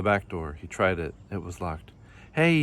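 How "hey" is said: raised-voice storybook shout. A narrator's reading. Kangaroo finds the doors locked, shouted. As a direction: call out, pitched up. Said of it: "he shouted".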